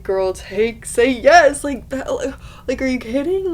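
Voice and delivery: high, urgent pleading; exasperated fangirl. Retold or imitated. Reader pleading with Tella to say yes. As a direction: beg her to say yes, voice up high. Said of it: "I was just very much like".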